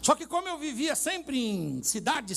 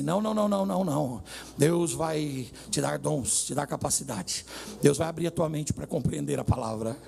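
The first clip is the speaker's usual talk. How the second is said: reassuring; 5 semitones lower than usual. Retold or imitated. Church member reassuring worried preacher, retold calmly. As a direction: settle the worried listener down, mildly. Retells a reassuring answer about gifts.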